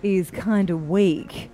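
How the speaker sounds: slow, deadpan news read; newsreader voice. Acted. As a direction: lyrics read as a bulletin. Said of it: "with my newsreader voice".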